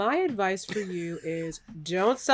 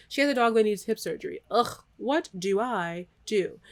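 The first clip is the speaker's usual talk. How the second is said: robot voice; 3 semitones higher, 4 dB louder than usual. Real, not acted. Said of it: "I did read that like a robot".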